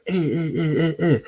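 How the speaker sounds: mock someone's endless yapping, lightly put on; mimicking nagging talker. Man mocking his rival's non-stop talking, derisive mimicry. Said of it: "that's what you sound like".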